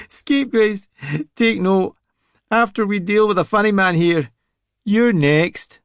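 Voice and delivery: a thug promising to deal with both; cocky threat. Acted. Deadfall taunts both.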